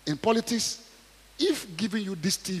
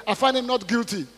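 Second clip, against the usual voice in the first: raised voice; 7 semitones higher, 6 dB louder than usual. Acted. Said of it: "Pilate said".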